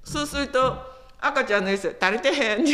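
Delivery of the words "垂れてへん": 垂れてへん in a light Kansai-dialect retort. Retold or imitated. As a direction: say 垂れてへん as a Kansai child would. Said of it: "関西弁で". (関西弁で「垂れてへん」)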